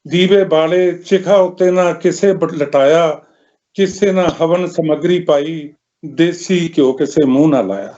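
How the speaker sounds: measured lament in verse, pausing between lines; mournful poem recitation. Acted. Poet telling of a mother's lonely funeral, mournful recitation.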